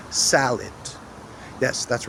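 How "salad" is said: SALAD with full first A, reduced second vowel; schwa pronunciation. Shown as a demonstration. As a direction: stress the first syllable of Salad, swallow the second A. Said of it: "we pronounce each A differently".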